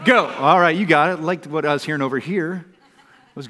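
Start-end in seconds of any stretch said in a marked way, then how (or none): 0.1-0.3 rising count then loud go; crowd-leader hype; count-in to a shout. Real, not acted. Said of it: "let's all say go together".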